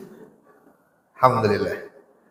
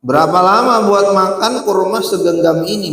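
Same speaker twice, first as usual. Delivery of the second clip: higher, pushier repeat of the question; raised rhetorical question; 6 semitones higher than usual. Shown as a demonstration. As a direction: throw the question back at the crowd, higher. Asks the question again, louder.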